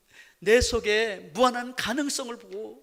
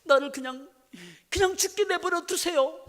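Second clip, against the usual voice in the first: high pleading cry of a lost sheep, much higher; a dying sheep begging to be left alone, high and loud; 10 semitones higher, 4 dB louder than usual. Pretend. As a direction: beg to be left to die, high and strained. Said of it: "양이".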